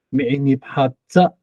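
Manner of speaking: 每一年哈扎 with the weight on 扎; light 哈, stressed 扎; stress at the back. Shown as a demonstration. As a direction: hit the last syllable 扎. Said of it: "如果重音在后的话".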